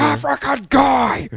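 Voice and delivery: loud, high, drawn-out shout; yelling. Retold or imitated. Friend echoing the theater heckler, loud slow yell. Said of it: "some guy started yelling".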